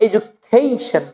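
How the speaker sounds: "education" as e-ju-KHEI-shon; slow "education", glide on the third syllable; British-American style. Shown as a demonstration. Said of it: "British accent and American accent".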